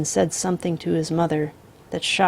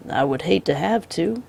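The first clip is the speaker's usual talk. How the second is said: calm drawling outlaw. Acted. The Misfit voiced.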